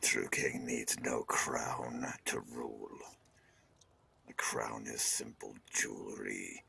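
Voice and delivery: commanding king. Acted. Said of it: "kind of kingly voice".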